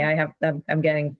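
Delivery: halting, restarting mid-phrase; fumbling for words. Real, not acted. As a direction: stumble over the words, searching. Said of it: "I'm s-, stumbling through this".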